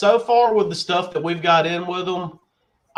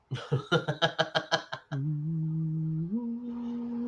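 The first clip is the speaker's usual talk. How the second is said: chuckle; 8 dB quieter than usual. Real, not acted. Host checking a viewer's question, soft chuckle. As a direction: chuckle softly to yourself. Chuckles while looking up a comment.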